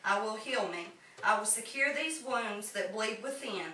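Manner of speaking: measured poetry reading with pauses between lines; poem recitation. Acted. Poet shares own poem with fellow writers, measured recitation. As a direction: recite it line by line in an even cadence.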